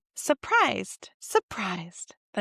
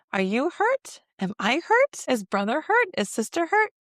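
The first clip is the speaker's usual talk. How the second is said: hurt; 6 semitones higher than usual. Acted. Mother voicing toddlers learning pain.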